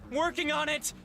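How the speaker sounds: anime protagonist. Acted. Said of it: "the speaker sounds like an anime protagonist".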